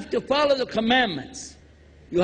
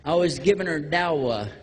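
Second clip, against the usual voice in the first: lower, lightly voiced caught young man; sheepish excuse; 6 semitones lower than usual. Young man caught with a girl, mildly sheepish. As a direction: sound caught out but innocent. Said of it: "What are you doing with this girl".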